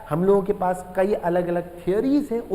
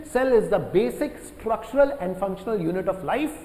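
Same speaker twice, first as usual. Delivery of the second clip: slow, evenly spaced definition; slow dictation; much slower than usual. Shown as a demonstration. Teacher dictating the cell definition to students, slowly. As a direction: read it out slowly for note-taking.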